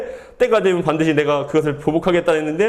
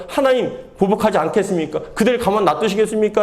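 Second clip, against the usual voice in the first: questioning God; 3 semitones higher than usual. Acted. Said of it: "또 하나님께 질문하는 거예요".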